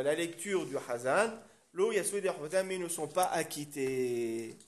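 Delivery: slow, stretched translation between lines of the source text; text-study recitation. Real, not acted. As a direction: read aloud, drawing out phrase endings.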